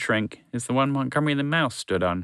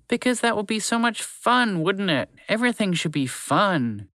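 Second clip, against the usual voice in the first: playful horse; 9 semitones higher than usual. A narrator's reading.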